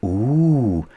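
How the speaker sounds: high ooh of delight; excited gasp. Acted. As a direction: gasp with wonder. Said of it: "gasped Peppa excitedly".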